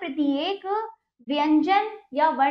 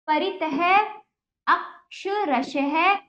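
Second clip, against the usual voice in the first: अक्षरशः said very slowly, akshara-shah; slow and clear; much slower than usual. Shown as a demonstration. Teacher reads अक्षरशः slowly for the class. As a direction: draw out अक्षरशः syllable by syllable.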